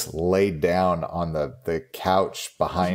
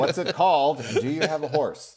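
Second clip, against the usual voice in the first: laughing; 9 semitones higher than usual. Real, not acted. Laughing joke question.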